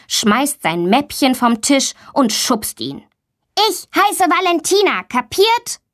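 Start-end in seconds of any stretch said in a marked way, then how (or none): 3.7-5.8 put-on high, sharp girl's outburst; a furious girl confronting a bully; angry. Girl Valentina shoves Tommy, angry and high.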